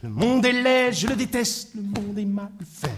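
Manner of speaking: chanted grumble on a held note; grumbling refrain. Acted. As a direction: grumble it out like a droning litany. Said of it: "un homme qui grognait comme ça".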